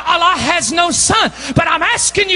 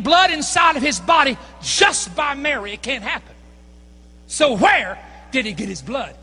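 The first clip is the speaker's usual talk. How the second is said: preaching at full force. Acted. The preacher challenges the Muslim man about Jesus' blood, preaching hard. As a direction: drive the argument home like a preacher. Preacher building his argument.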